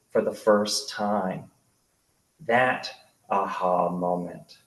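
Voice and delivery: measured literary narration with deliberate pauses; memoir reading. A narrator's reading. Author reads childhood memoir about Darren, measured narration. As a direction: read it out to a live audience, phrase by phrase.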